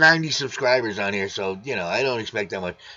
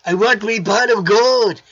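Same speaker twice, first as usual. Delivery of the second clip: leprechaun; 5 semitones higher than usual. Pretend. Leprechaun line after leprechaun talk.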